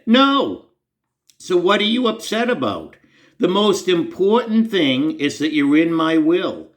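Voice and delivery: God's still small voice asking the downcast narrator. Retold or imitated.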